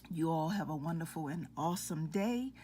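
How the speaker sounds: slightly out of breath; breathless after climbing stairs. Real, not acted. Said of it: "I'm out of breath walking up and down the steps".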